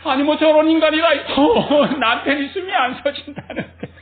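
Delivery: 웃음 섞인 과장된 투덜거림; 아내가 어이없다는 듯 높여서 흉내 낸 짜증. Retold or imitated. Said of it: "마누라를 보니까 불끈 화가 나". (웃으며 재연하는 불끈한 화)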